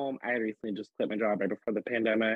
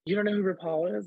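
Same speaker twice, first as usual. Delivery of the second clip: amazed mom; 7 semitones higher than usual. Retold or imitated. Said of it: "And she goes".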